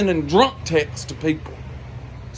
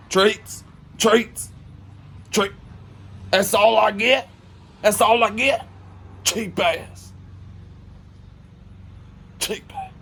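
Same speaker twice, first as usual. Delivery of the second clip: put-on drunk man demanding treats; 4 semitones higher, slower than usual.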